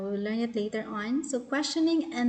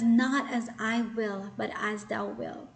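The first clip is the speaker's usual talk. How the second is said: surrendering prayer. Retold or imitated. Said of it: "even Jesus responded with emotions".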